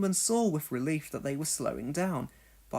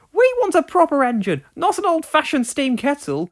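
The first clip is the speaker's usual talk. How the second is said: rude trucks; 11 semitones higher, 10 dB louder than usual. Acted. Rude trucks mocking Donald.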